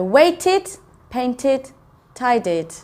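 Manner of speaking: waited, painted, tidied, each ending in ID. Shown as a demonstration. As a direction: list waited, painted, tidied with a small gap after each. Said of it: "it sounds like I D".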